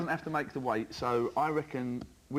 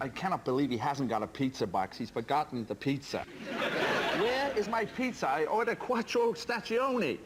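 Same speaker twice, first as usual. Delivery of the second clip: McEnroe tantrum. Acted. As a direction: wail it like a spoilt champion. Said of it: "McEnroe getting in a tiz".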